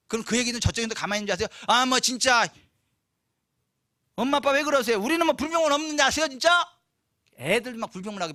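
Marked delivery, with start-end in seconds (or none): 1.7-6.7 put-on higher, louder, fast whiny children's complaint; whiny kids. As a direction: pester like sulky kids. Children complaining to parents voiced.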